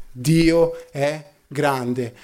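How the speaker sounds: commozione accennata, lenta e più bassa; pianto riferito. Retold or imitated. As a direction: scandisci piano le parole, appena commosso. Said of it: "si mise a piangere ed esclamò". (commozione contenuta, senza pianto)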